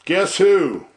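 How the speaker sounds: growled wrestler entrance, with a long drawn-out pause on "Yours truly"; trademark entry. Acted. Wrestler greeting his viewers with his trademark entry voice. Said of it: "That is my trademark entry right there".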